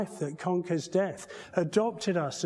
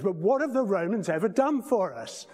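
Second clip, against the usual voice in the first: a lightly voiced exasperated John Cleese, faster; 3 semitones higher, 3 dB louder than usual. Preacher retelling the sketch, mock exasperated Cleese. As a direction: rattle it off as an impatient Cleese. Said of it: "we have John Cleese going".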